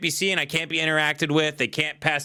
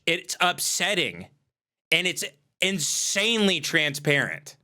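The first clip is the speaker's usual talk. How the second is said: scolding; 2 semitones higher than usual. Retold or imitated. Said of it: "been like".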